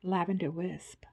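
breathy whispered ad tagline; whispered slogan. Acted. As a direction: whisper it like a sultry ad.

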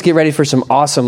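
playful imitation of a Texan saying awesome; Texas accent. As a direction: say it like a good Texan. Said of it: "like a, a good Texas person would say it".

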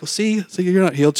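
gloating tease. Retold or imitated. Teasing her after the kick.

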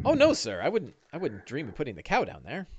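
hasten to reassure the boss; deferential sidekick Bing. Acted. Game master plays Bing.

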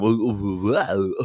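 quick mock-Goldblum oohs and wow; lightly put-on actor's murmur of wonder; Jeff Goldblum. Host prompting co-host for the impression, lightly imitating Goldblum. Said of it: "hear it in the Jeff Goldblum".

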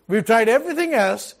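a lightly voiced grumbling crowd; mocking complainers. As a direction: act out the whining disciples. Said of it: "It was like".

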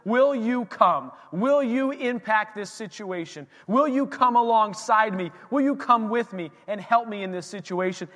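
a father begging Jesus to come, earnest prayer. Retold or imitated. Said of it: "he was basically praying".

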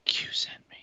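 mock-secret whisper in the ear; hushed, voiceless conspiratorial bit. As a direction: whisper it like a covert password. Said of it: "you should whisper in his ear".

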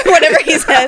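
loud, laughing through the words; real laugh breaking over the line. Real, not acted. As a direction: crack up while tossing it off. Cracks up after quoting the insult.

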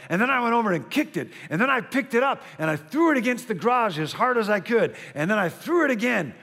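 put-on breathless, eager kid's rush; excited boy. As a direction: gush it out like a thrilled boy.

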